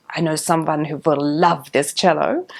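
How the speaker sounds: imitating a Hungarian teacher, lightly; Hungarian accent. Hungarian teacher praising the cello, light Hungarian accent. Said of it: "in his very Hungarian accent".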